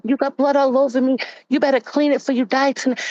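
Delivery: high-pitched imitation of a raging rant; retold screaming. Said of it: "He's screaming".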